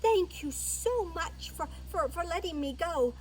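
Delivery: high, loud, eager mouse voice; breathless-with-relief mouse promise; grateful little mouse. Acted. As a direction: gush thanks in a high little voice.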